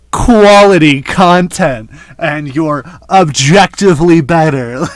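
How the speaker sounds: "quality content" and "objectively better" punched loud; spoken air quotes. Retold or imitated. Host re-enacts his air quotes, heavy emphasis. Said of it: "air quotes, but I spoke them out loud".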